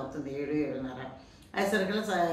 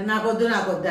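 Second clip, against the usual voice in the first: louder, sulky no no; loud refusal; 2 semitones higher, 6 dB louder than usual. Acted. Son loudly refusing his mother's pulihora, a sulky shout. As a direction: push the food away with a loud refusal.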